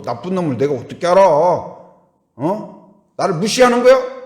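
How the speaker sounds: rising to a loud high indignant outburst; angry denial. Acted. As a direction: flare up, offended. Acted friend's angry denial. (화가 치밀어 높아지는 목소리)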